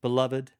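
Beloved said warmly, then a pause; Beloved as a warm opening; warm greeting. Shown as a demonstration. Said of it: "so that it would be".

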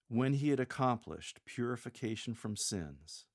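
understated, even reading; matter-of-fact. Shown as a demonstration. Lector alluding to the crucifixion, matter-of-fact. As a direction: state it plainly as settled fact. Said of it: "in a matter-of-fact way".

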